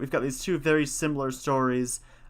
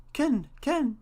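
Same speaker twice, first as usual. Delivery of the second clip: very high squawking bird call; pheasant call; 12 semitones higher than usual. Acted. Pheasant's cry in story.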